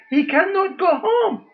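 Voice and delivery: voice breaking. Real, not acted. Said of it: "My heart starts crying".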